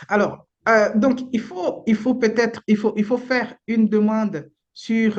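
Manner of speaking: slow it down so the listeners can follow; speaking slowly. Real, not acted. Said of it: "de parler doucement".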